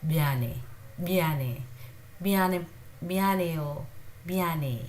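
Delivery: biane with the b somewhere between M and B; pronunciation demo. Shown as a demonstration. Teacher modelling biane for Korean learners, careful and slow. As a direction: say biane slowly, m and b blended. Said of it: "pronounced somewhere between M and B".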